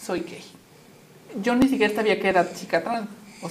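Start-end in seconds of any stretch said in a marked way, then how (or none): 0.0-0.4 soft, slow, tearful confession to mom; half-whispered through remembered tears. Retold or imitated. Confessing to her mother through tears, soft and slow. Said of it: "yo llorando así en lágrimas le dije".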